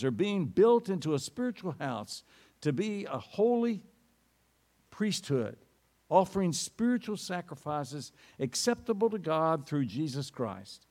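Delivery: measured, solemn reading from the pulpit; scripture reading. Acted. Pastor reading First Peter to the congregation, solemn reading. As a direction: read the passage with weight, phrase by phrase.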